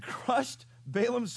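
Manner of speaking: real chuckle breaking into the reading; chuckling. Real, not acted. Preacher reading about Balaam's crushed foot, chuckling. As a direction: let a small laugh slip in mid-verse. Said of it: "I chuckle every time I read that".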